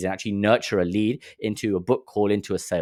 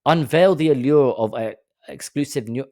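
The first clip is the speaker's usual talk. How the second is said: a lightly hammed-up pompous ad read; mock pompous ad voice; 5 semitones higher than usual. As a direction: sneer at the fancy wording by overselling it. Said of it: "who the hell speaks like this".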